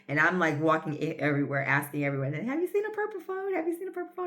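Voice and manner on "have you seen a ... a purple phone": mock pleading. Asking everyone for her phone.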